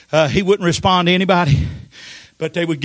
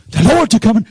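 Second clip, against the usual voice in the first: calling out; 4 semitones higher, 5 dB louder, faster than usual. Retold or imitated. Calling to dying Vernie.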